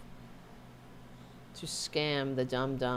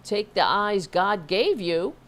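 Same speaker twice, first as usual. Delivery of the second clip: mock preachy quote; 3 semitones higher, 7 dB louder than usual. Mocking a quoted opponent.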